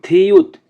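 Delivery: থিউত high and loud, with aspirated th; pronunciation demo. Shown as a demonstration. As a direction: model থিউত firmly for learners. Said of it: "থিউতের উচ্চারণ হবে". (থিউত জোরে স্পষ্ট উচ্চারণ)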